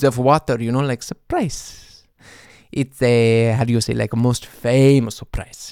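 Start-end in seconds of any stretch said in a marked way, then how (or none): 2.7-5.7 a light put-on Swedish accent; mock Swedish accent. Swedish mimicry of the garbled song title. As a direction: mimic the Swede's broken English, lightly. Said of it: "this is not how we sound here in Sweden".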